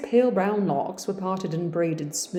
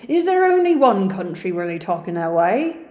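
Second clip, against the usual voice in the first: Yorkshire servant; 7 dB louder than usual. Acted. Hannah voiced in Jane Eyre.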